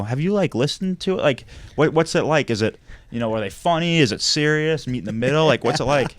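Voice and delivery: keen to hear his verdict; eager questions. Retold or imitated. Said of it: "And I go".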